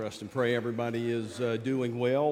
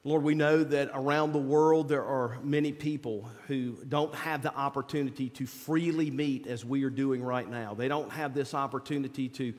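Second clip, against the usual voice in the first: prayer voice. Acted. Leads an opening prayer.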